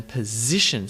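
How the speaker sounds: position with weak first syllable, strong ZI; po-ZI-tion; second-syllable stress. Shown as a demonstration. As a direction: hit the middle of position. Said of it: "second syllable".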